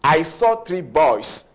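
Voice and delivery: put-on slow, deliberate "I saw three boys" with the S clear; slow corrected sentence. Shown as a demonstration. Teacher modelling the correct plural for students, slow and clear. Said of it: "No, it's wrong".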